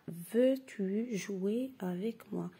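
slow, even repeat of the question. Shown as a demonstration. Teacher repeating the sentence slowly for pupils. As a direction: read it again slowly. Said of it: "Je répète".

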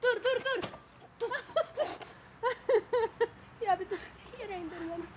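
laughing, pleading to be let down; high, breathless begging to stop; on a seesaw. Real, not acted.

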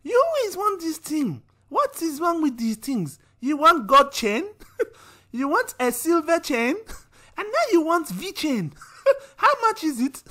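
high, exasperated mother voice through giggles; scolding mum. Acted. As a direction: nag the child like a fed-up mum. Mother scolding in acted skit.

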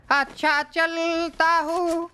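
slow, mock-tragic movie goodbye; hammed-up Bollywood death scene, slow; filmy farewell. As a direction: drag each word like a dying hero.

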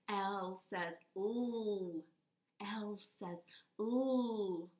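L says l, stretched slowly; slow letter sound. Shown as a demonstration. Teacher modelling the L sound slowly. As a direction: draw out the l sound. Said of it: "Do it with me".

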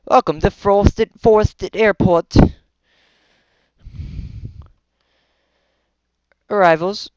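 a touch of a flight attendant; airport announcer voice. Pretend. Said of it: "I'm used to that voice".

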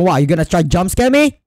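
high loud shrieking threat; loud shrieked threat; mock threat. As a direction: scream the threat to scare it off. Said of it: "I go".

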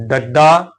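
ਡੱਡਾ with a firm, held middle ḍ; doubled middle consonant. Shown as a demonstration. Teacher repeating the correct reading, ਡੱਡਾ with doubled ḍ. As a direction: double the ḍ in ਡੱਡਾ, ending on a rise. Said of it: "ਅੱਧਕ ਸਹਿਤ ਉਚਾਰਨ".

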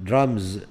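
درامز ending in a clear z; pronounce final z. Shown as a demonstration. (نطق درامز بزاي في النهاية)

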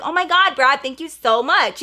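high, loud, delighted thank-you to Brad; gushing thanks. Retold or imitated. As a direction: gush over Brad like he saved the day.

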